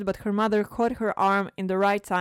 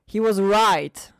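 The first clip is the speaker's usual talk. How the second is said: overly confident; 7 dB louder, slower than usual. Acted. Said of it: "Shazam said overly confidently".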